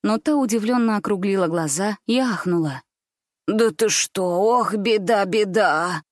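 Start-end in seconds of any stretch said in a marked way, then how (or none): 3.5-6.0 tragic exclamation. Acted. Grandmother feigning dismay at Gulya's story, mock tragic. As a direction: wail it like a stage grandmother. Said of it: "трагичным голосом воскликнула она".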